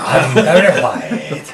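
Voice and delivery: lightly voiced smooth crooner; a deep-voiced soul singer's voice. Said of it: "street version of a soul singer".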